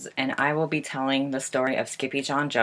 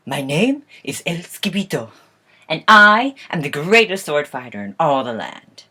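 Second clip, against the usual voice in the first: grand self-introduction, stretched and emphatic; boastful hero; 6 dB louder than usual. Acted. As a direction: announce yourself as a storybook swordsman. Kitten hero introduces himself grandly.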